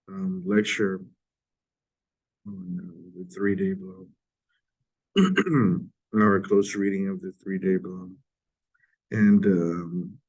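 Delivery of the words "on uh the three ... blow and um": hoarse from a sore throat. Real, not acted. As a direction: voice giving out with strep throat. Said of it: "I'm sorry about my voice. I have strep throat".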